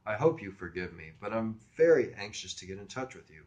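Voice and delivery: lightly affected smooth politeness; a hint of a teen playing suave; suave, mature voice. Teen courts a stranger by phone, mildly suave put-on maturity. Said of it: "I said it suave as hell".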